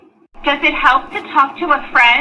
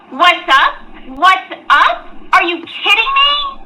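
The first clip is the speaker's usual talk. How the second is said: high, indignant shout; angry; 5 semitones higher, slower than usual. Acted. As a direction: yell it in disbelief. Dana angry at friends.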